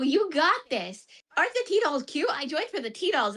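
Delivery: mock-sweet T-doll cheerleading; saccharine cheer. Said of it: "it's so saccharine".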